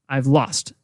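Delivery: "lost" stressed over a lighter "I've". Shown as a demonstration. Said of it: "Lost is stronger stressed".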